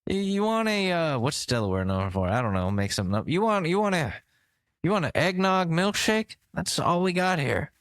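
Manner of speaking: put-on high, chummy old-man voice; a cheery ghost greeting visitors; hammed-up Biden welcoming tourists; ghostly Biden. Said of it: "Joe Biden's floating around".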